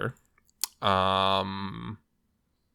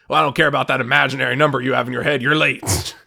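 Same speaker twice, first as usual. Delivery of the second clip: loud, fast, higher-pitched mock telling-off; acted scolding; 4 semitones higher, 7 dB louder, faster than usual. Imitating the guy telling off the latecomer, loud scolding. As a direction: rattle it off like an irate instructor.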